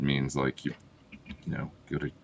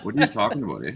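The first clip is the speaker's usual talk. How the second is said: higher, mock-indignant Canadian accent; 7 semitones higher, 3 dB louder, faster than usual. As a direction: tack a Canadian eh on the end. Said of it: "lost my Canadian accent".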